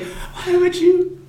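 high, slow, exasperated squeal; exasperated Schmidt. Retold or imitated. Schmidt losing it at the salesmen, high and slow. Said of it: "And he gets so mad".

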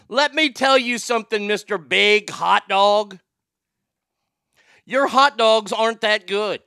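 loud, high wrestler promo yell; wrestling promo shout. Acted. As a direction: bellow it like a pro wrestler. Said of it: "cut a wrestling promo".

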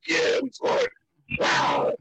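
high, thrilled yelps of joy; squealing celebration in a store; excited yelping. Retold or imitated. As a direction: yelp like your team just scored. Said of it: "jumping and yelping in the store".

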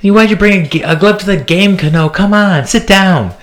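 high-pitched New York heckling; worst New York accent. Retold or imitated. Comedian friend mocking a fan's glove, worst New York accent. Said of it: "in his worst New York accent".

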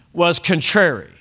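slow, measured preacher reading; scripture reading. Acted. Pastor reading scripture to the congregation, measured. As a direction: read the verse with weight.

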